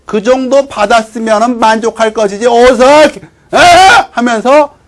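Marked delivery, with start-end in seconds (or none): 0.1-3.6 raised-pitch indignant telling-off; irate scolding. Acted. Servant rebuking a soldier over his rations, irate. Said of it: "역정을 내니까는".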